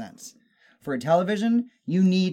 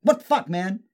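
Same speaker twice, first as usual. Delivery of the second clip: high, loud, exasperated outburst; ranting in high-pitched mock outrage; 11 semitones higher, 7 dB louder than usual. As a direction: blow up at a stupid gimmick. Ranting, voicing exasperated reaction.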